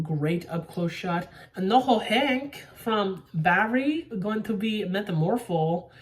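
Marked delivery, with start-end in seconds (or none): 1.6-5.9 a light put-on Noho Hank accent, slowed; mock Noho Hank accent. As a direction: toss off a quick imitation of Noho Hank's accent. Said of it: "Hope that wasn't a bad accent".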